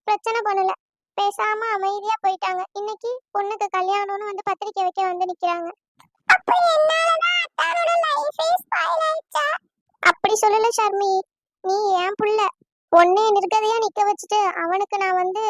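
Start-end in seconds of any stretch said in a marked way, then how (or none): 6.3-9.5 high, slow, hurt question, close to tears; distressed guilt. Acted. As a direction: ask it slowly, stunned that it was her fault. Wife learns she spoiled cousin's life. (குற்ற உணர்வில் உடைந்த குரல், மெதுவாக)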